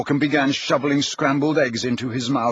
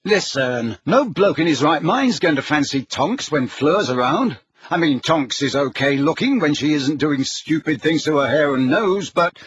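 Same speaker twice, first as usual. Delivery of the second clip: put-on higher, louder boy arguing his case; Ron, emphatic; 5 semitones higher, 4 dB louder than usual. Ron dismissing the idea about Tonks, emphatic. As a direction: insist like an exasperated teenage brother.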